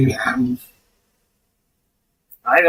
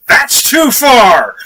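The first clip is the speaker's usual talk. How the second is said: slow, higher and louder, drawn out in alarm; shocked protest; 8 semitones higher, 6 dB louder, much slower than usual. Retold or imitated. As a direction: act out the horrified German politicians. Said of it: "right-wing German parties are going".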